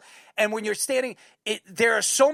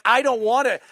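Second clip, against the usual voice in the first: rising higher and louder into a laugh; mock exasperation; 5 semitones higher, 5 dB louder than usual. Complaining to the hosts about the odd fan, mock exasperated and rising. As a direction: build to a laughing outburst.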